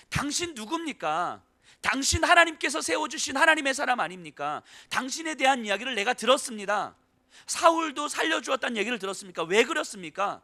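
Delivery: rising fervent appeal ending in a shout; urgent pleading shout. Retold or imitated. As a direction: rebuke a furious warrior to his face. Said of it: "이렇게 외치고 있는 거예요".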